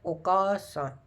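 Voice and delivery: "ओकासान" with a long second a, okaasan; teaching viewers the Japanese word for mother. Shown as a demonstration. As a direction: stretch the "का" in "ओकासान". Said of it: "mother है तो उसमें क्या है".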